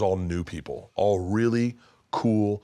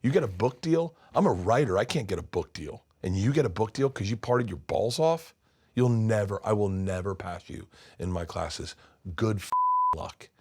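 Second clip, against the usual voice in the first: bitter teacher rant. Retold or imitated. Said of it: "He goes".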